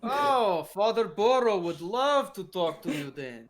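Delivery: mock delight. Fence, mock-delighted by priest claim.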